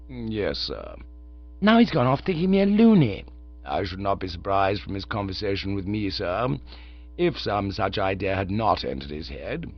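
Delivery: calm, unruffled manservant; Jeeves the valet. Acted. Jeeves answers Bertie.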